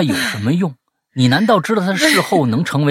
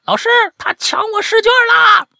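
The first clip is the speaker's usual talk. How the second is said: shrieking, much higher tattling shout to the teacher; desperate shout; 4 dB louder than usual. Retold or imitated. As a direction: yell for the teacher as if robbed. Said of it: "拼命大喊". (拼命尖声大喊)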